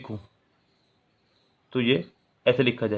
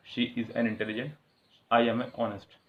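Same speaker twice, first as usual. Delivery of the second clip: mock wrong sentence; 6 dB quieter, much slower than usual. Shown as a demonstration. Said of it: "बड़े खुश होते हैं कि सही सेंटेंस".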